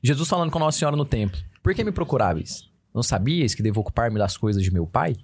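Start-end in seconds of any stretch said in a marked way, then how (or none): 1.6-5.1 gentle, measured quotation; affectionate, dutiful son to his mother; tender and obedient. Acted. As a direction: ask it with care, no reproach. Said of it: "ele fala isso com carinho, com obediência".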